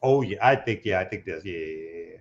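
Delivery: ordinary talk, nothing marked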